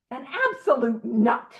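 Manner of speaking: "absolute" leaned on in "an absolute nut"; stress on absolute. Shown as a demonstration. Reading his resentment list aloud, stressing "absolute". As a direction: push the word "absolute" hard. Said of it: "I'm just emphasizing it".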